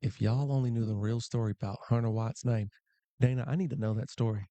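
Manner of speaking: put-on a light Southern Belle accent reading the chat. Commentator reading a viewer's chat aloud, light Southern Belle accent. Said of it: "I got to a Southern Belle accent".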